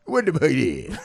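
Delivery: "What the boogie" run together as one noise; garbled slurred sound. Retold or imitated. Woman reacts to his book, "What the boogie" as garbled sound. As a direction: mimic her mangled "boogie", long falling ending. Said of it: "She said this sound".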